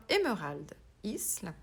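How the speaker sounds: self-mocking attempt at an English accent. Shown as a demonstration. Painter naming a paint colour in an English accent. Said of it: "Avec mon superbe accent anglais".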